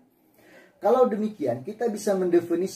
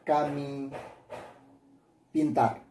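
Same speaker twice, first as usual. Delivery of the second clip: dictating example; slower than usual. Shown as a demonstration. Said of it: "Kalimat ketiga".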